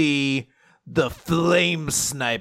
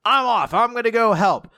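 eager heroine; 8 semitones higher than usual. Retold or imitated. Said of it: "Rebecca's like".

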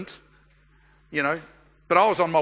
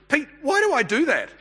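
imitating Nikki; 8 semitones higher than usual. Nikki asks with a smile.

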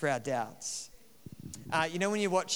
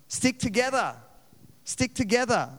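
pleading with the screen; 7 semitones higher than usual. Retold or imitated. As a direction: beg the movie characters not to split up. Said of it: "But you're like".

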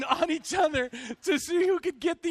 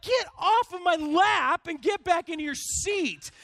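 higher-pitched mock outburst; hammed-up exasperated demand; retold anger; 5 semitones higher than usual. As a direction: order him away in re-enacted irritation. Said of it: "I'm getting so mad".

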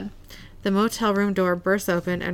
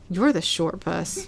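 lame comeback; slower than usual. Retold or imitated. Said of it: "so bad at comebacks".

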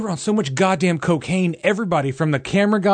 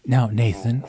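gentle grief counselor; 4 semitones lower than usual. Pretend. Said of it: "sounds like a grief counselor".

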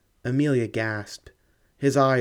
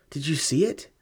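1 startled question; 4 semitones higher than usual. A narrator's reading. Startled at the tracks.

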